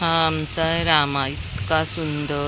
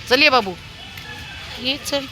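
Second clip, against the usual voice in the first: calling a dog; 9 semitones higher than usual. Real, not acted.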